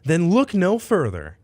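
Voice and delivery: upbeat commercial voice; ad read. Acted. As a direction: pitch it like a TV ad. Mock advertisement.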